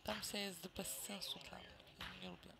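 whispered grumble. Real, not acted. Gamer grumbling to himself about the map, whispered. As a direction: breathe the complaint under your voice. Muttered complaint during play.

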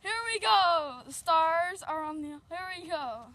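put-on kid-game play-by-play opening; drawn-out team names, announcer style; sports announcer. Announcer opens the Beast Motors versus Stars match, play-by-play style.

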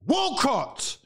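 sudden high yell of the name; outraged shout. Real, not acted. Disbelief at Walcott scoring.

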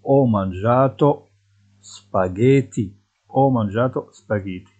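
very slow, clear Italian model sentence; spelled out for learners; deliberate dictation pace; slow teaching model. Shown as a demonstration. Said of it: "teacher models slowly".

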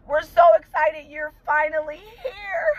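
tearful reading. Real, not acted. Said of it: "I'm crying".

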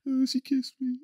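high, soft mock sulk; hammed-up lovesick Wolverine; sulky Wolverine. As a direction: moon over the kiss, pouting. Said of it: "he sulks away like".

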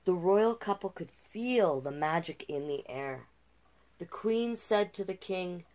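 gentle rhyming read-aloud; storyteller voice for a picture book; storybook narration. A narrator's reading. Reads the fairy tale aloud.

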